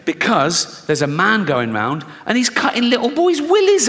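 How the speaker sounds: put-on high, building scare story for a child; frightening mum warning. Mum scares her seven-year-old off toilets, mock-dire warning. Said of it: "have to frighten their kids".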